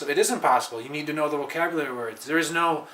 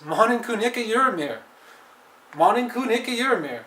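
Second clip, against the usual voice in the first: frustrated exclamation; 7 semitones higher than usual. Shown as a demonstration. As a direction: throw up your hands in frustration.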